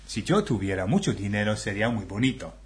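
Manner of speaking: brisk plain reading; plain read of the test phrase. Shown as a demonstration. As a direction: say it simply, a touch quick. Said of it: "la frase es".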